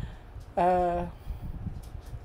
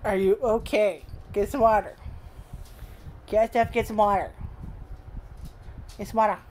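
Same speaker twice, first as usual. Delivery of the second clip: coaxing the dog; 3 semitones higher than usual. Real, not acted. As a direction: nudge the dog toward its water. Urging the dog to drink.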